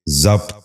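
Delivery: ضبط in one syllable, "zabt"; correct pronunciation. Shown as a demonstration. Teacher giving viewers the model, correct pronunciation. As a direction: say ضبط as zabt, no second vowel. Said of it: "ذہن نشین کر لیجئے".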